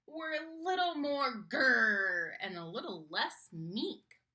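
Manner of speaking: a hopeful small mouse dreaming big; eager little mouse. Acted. Mouse voice figure.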